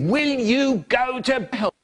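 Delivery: high odd put-on voice; funny voice. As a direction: sing it out in a weird high voice. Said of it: "a funny voice going".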